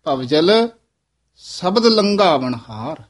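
ਭਵਜਲ, then a clear pause; pause after ਭਵਜਲ. Shown as a demonstration. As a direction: rest on ਭਵਜਲ before going on. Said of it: "ਭਵਜਲ ਪਦ ਤੇ ਵਿਸਰਾਮ ਲਾਉਣਾ ਹੈ". (ਭਵਜਲ ਤੇ ਵਿਸਰਾਮ)

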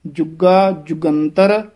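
slow "ਜੁਗਾ ਜੁਗੰਤਰ" with a firm, tight g; slightly tightened. Shown as a demonstration. Teacher modelling "ਜੁਗਾ ਜੁਗੰਤਰ", slightly tightened consonants. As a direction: press the g in "ਜੁਗਾ" a little. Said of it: "ਥੋੜਾ ਜਿਹਾ ਕਸ ਕੇ ਬੋਲਣਾ ਹੈ".

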